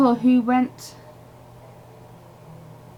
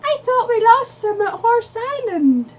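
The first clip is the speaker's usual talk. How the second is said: yelling; 11 semitones higher, 3 dB louder than usual. Acted. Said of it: "She yelled".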